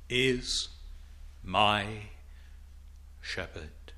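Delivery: fading to a soft, low whisper of wonder; awed near-whisper; hushed awe. Acted. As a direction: let shepherd fall away in reverence. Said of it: "Think of that".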